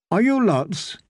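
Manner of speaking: teasing. A narrator's reading. Elaine teasing the knights, lightly playful. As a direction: poke fun at the knights. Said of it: "she said, teasing".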